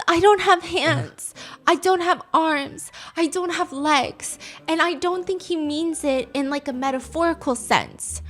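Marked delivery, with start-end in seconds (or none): 0.1-4.4 slow, flat-out claim of no limbs; slow deadpan claim. Retold or imitated. Slow deadpan, a rookie actor telling the landlady he has no limbs. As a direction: spell each line out slowly, straight-faced. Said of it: "He says".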